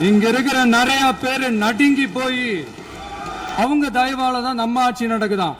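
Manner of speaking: high, loud rallying cry; fiery oration. Real, not acted. Addressing the assembly in a loud, high rallying cry. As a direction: hammer each promise home to the house.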